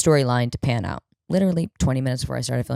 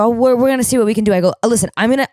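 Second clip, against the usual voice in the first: eager reply; 8 semitones higher, 6 dB louder, much faster than usual. Retold or imitated. Kelsey eager then Christina pleading.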